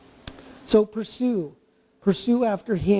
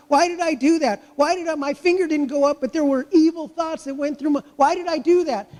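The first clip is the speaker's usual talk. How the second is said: anguished self-questioning; 4 semitones higher than usual. Retold or imitated. Believer regretting past deeds.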